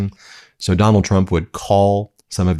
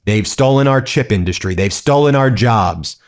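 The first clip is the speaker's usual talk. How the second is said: higher-pitched retold accusation; mock attack; 4 semitones higher, 3 dB louder than usual. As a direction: hammer out each grievance, imitating a political attack. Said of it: "Donald Trump attacks Taiwan and says".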